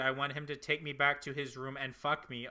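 slow, soft deadpan; flat, slow and quiet; monotone voice. Acted. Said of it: "I'm gonna do it in this voice".

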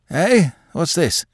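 high, sudden, bewildered outburst; confused old man, pitched high; startled cry. Acted. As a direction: cry out as if jolted awake. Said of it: "he cried".

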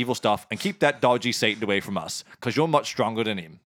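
matey Cockney mock prayer; Cockney accent. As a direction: recite a prayer as a chummy Cockney. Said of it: "in Cockney".

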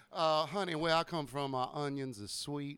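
lightly put-on slow Southern belle accent; Southern drawl. A light Southern accent teasing friends about Vidalia onions. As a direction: drawl it like a genteel Vidalia lady. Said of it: "more like molasses down in Vidalia".

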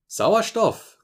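frightened editor crying out at the news; fearful cry. A narrator's reading. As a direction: cry out the word in dismay. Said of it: "rief seine angstvolle Stimme".

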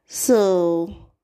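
breathy whispered so. Real, not acted. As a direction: drop to a whisper. Whispered aside.

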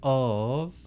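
slow, drawn-out hype announcer voice; mock announcer. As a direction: stretch the name like a big intro.

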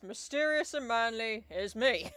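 Heathcliff. Acted.

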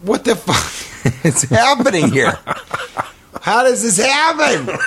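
high, slow, laughing disbelief; retold panic. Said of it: "And I was like".

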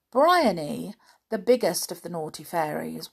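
put-on lively read-aloud for children; animated children's story reading; storybook narration. A narrator's reading. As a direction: tell it like a bedtime story to little ones.

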